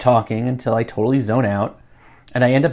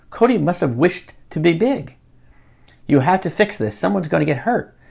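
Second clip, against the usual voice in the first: usual speaking voice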